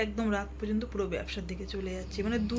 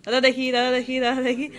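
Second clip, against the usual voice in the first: pleading beggar; 3 semitones higher, 10 dB louder than usual. Shown as a demonstration. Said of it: "এরম বলবি".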